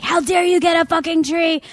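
high, indignant mom voice; mock the mother's outrage; hammed-up furious mother; imitating angry mom. Mom furious about the tree.

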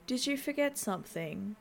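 flat, even, uninterested voice; monotone. Acted. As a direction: say it with no inflection, coldly. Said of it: "she asks in a monotone voice".

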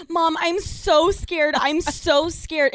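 put-on slow, pleading like a frightened child; scared pleading. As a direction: whimper it like a scared kid. Scared plea to mother retold.

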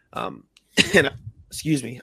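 hiccuping mid-sentence; speaking through hiccups. Real, not acted. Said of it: "I have the hiccups".

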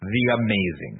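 building ring introduction; Bruce Campbell announcer. Acted. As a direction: announce each title with a pause between. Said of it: "Bruce Campbell fucking knows better".

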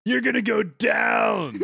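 high, slow laughing jock taunt; trash-talk like a cocky gladiator; taunting bro voice. Acted. Buster Bro taunts player.

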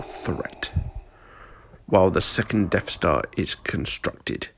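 a lightly voiced, cold old Emperor scolding his apprentice; scornful ruler reproaching a failed servant; menacing Emperor. Emperor gives orders.

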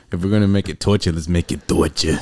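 hammy Brooklyn vowels on "torture"; Brooklyn accent. Pretend. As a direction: say it like a Brooklyn native, "toychah". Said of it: "what accent is that? Is it Brooklyn?".

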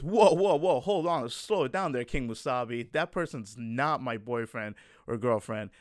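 mock-alarmed, loud 'whoa' then easing down; defensive protest. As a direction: put on someone hurriedly correcting a friend. Imagined defensive reply about the label.

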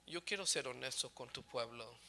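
low, soft confession to God; humble prayer. Retold or imitated. Preacher tells the Lord he wants to be honest, humble and low. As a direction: plead quietly and honestly, voice dropped.

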